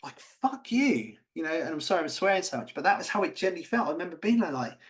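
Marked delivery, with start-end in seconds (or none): 0.2-1.2 a sharp high fuck you; mock angry retort. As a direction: spit it at the one who hurt you.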